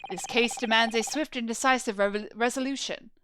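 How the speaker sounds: measured, formal courtroom announcement; a hint of a solemn judge; lightly voiced presiding official. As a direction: address the court with quiet authority. Plays official presiding over the trial.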